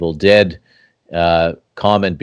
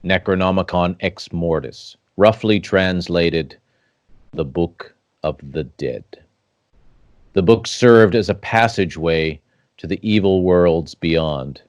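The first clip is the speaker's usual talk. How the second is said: epic fantasy narrator. Acted. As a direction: read it like a dark legend. Ominous legend intro over music.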